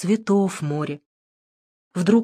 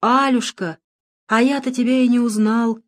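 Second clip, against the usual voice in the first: amazed; 5 semitones higher, 3 dB louder than usual. A narrator's reading. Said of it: "изумился отец Александр".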